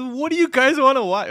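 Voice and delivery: high, loud woman's voice; man doing a woman's voice; Lily Singh voice. Retold or imitated. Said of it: "She goes".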